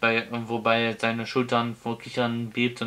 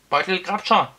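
"Beutelgrabscher" yelled high and loud; full-throated shout; 7 semitones higher, 5 dB louder than usual. A narrator's reading. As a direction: bellow the name at full voice. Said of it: "schrie der Zauberer aus vollem Hals". (aus vollem Hals geschrien)

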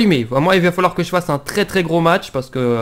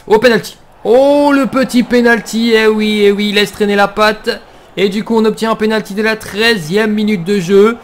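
excited; 4 semitones higher, 4 dB louder than usual. Real, not acted. Penalty awarded in FIFA.

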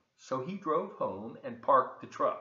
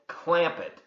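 sharp hush; 4 semitones higher, 9 dB louder than usual. Acted. Mama shushes the prince.

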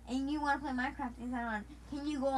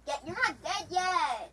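slow, higher, louder game yell; excited yell; 4 semitones higher, 5 dB louder, slower than usual. Real, not acted. Yelling at a player who isn't dead yet, yell. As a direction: stretch it out and yell it.

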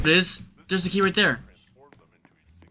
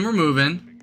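whispering; 3 semitones higher than usual. Real, not acted. Tense sneaking.

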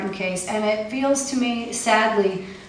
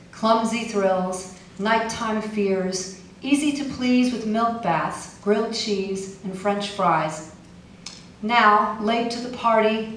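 measured, slowing lyrical reading; poem reading. Acted. Poet reading her Syria poem, gently slowing. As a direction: let it settle slowly toward the lullaby.

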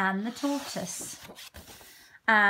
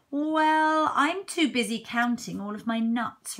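busy squirrel; 3 semitones higher, 4 dB louder than usual. Acted.

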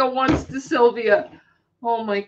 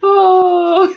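laughing yelp; 7 semitones higher, 7 dB louder than usual. Real, not acted. Cracking up at the joke.

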